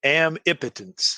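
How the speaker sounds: "Amipotence" repeated as a model, opening on "am"; coined word pronunciation. Shown as a demonstration. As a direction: sound out "Amipotence" with "am", not "om". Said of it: "How do you say this word".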